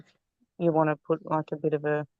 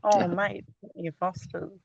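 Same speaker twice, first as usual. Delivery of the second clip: attempted Aussie accent; 3 semitones higher than usual. Shown as a demonstration. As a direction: try an Aussie accent, then back down. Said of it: "can't even do an Aussie accent".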